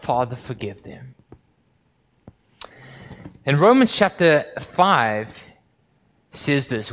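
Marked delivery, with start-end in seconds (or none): 0.0-1.1 the preacher echoing the cry from the cross, soft; soft, hushed echo. Acted. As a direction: breathe the words out gently. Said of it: "Jesus cries out".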